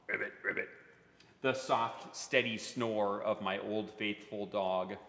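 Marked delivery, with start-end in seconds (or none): 0.1-0.7 frog croak. Acted. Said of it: "the croak of the frog".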